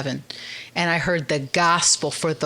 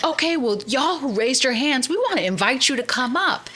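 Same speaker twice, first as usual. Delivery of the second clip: preacher's invite; 7 semitones higher than usual. Retold or imitated. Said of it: "And they're like".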